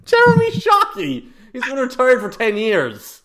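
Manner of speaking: very high, loud, drawn-out disbelief; exasperated, amazed outburst; incredulous. Real, not acted. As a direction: squeal the name back in astonishment. Co-host's disbelief at retired player pick.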